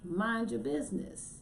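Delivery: mock protest without real shouting; retold yelling at the screen. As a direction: argue back, aggrieved but playful. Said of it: "I would be yelling at the screen".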